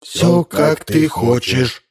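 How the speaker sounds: slow, high mechanical chant; robot parents droning together; robots in chorus. A narrator's reading. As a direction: recite it like a machine. Robots again.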